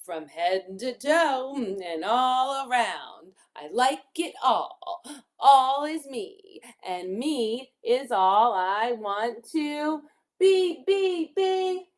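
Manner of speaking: slow, measured rhyming storybook read; reading to children. Acted. Teacher reads rhyming picture book to children, slowly. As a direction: lean on key words, pausing between phrases.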